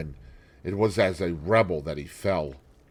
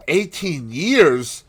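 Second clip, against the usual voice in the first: laughing triumph; 7 semitones higher, 5 dB louder, much slower than usual. Acted. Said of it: "laughed Dorian Gray, with a touch of triumph".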